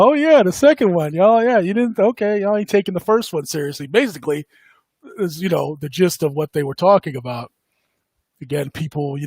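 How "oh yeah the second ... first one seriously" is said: lightly voiced offhand big shot, higher and louder; mocking quote. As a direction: toss it off like a smug insider, a bit higher. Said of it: "he's talking about".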